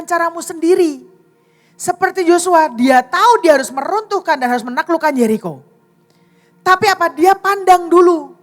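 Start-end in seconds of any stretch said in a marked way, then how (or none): 1.8-8.3 raised, emphatic pulpit voice; preaching. Acted. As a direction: press each short phrase on the congregation. Preacher driving the point.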